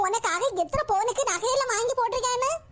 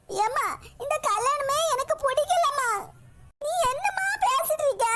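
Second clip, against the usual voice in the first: tearful protest; 4 semitones higher than usual. Acted. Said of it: "நடிக்காத கண்ணீரை வடிச்சிட்டு".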